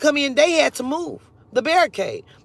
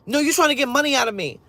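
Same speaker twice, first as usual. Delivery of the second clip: quick, mildly insistent accusation; retold accusation; 2 semitones higher, faster than usual. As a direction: accuse quickly, voice only slightly raised. Other man's accusation retold.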